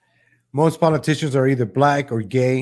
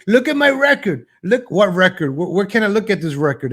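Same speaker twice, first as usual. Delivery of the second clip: mocking a politician; 5 semitones higher than usual. Host imitating candidates defending their record, mock indignant. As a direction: bluster then fake confusion. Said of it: "you see how they say".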